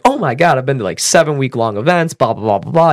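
imitated gushing outburst; retold excited fan raving; freaking out. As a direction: start high and erupt with enthusiasm, then rattle on. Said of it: "freaks out. He, like, erupts in".

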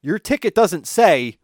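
mock patronizing lecture, slowed right down; condescending lecture. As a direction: spell out concert rules to a child. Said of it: "And then he's like".

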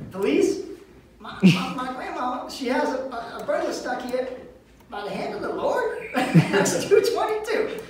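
high-pitched report breaking into laughs; fighting back laughter. Retold or imitated. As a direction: imitate a giggly call to police. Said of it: "Stop laughing".

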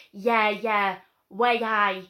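loud, mocked-up Geordie accent; put-on Geordie accent. Translator talking to the suspect, put-on Geordie accent. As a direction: imitate someone laying on Geordie. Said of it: "she starts putting the accent on".

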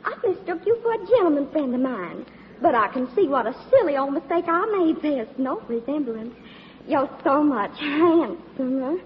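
flirty fake Southern belle accent; southern belle act. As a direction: coo at him like a Southern belle. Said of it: "my little old southern routine".

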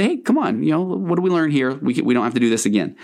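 a hint of a chill pal talking you down; friendly guilt coaxing you to learn and move on; guilt trying to be cool. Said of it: "Guilt's trying to say".

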